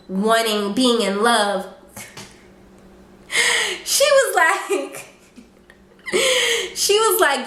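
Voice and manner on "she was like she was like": high-pitched, breaking into real laughter; laughing while talking. Real, not acted. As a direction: crack up mid-sentence at the absurd accusation. Cracks up while telling the accusation.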